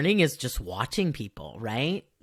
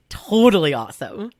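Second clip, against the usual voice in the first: put-on Valley Girl; 4 semitones higher, 7 dB louder than usual. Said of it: "if this was in the, like, seventies".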